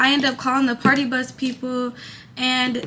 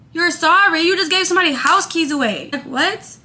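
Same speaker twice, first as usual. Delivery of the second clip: angry disbelief; 4 semitones higher than usual. Retold or imitated. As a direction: throw his apology back at him. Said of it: "it had me so hot".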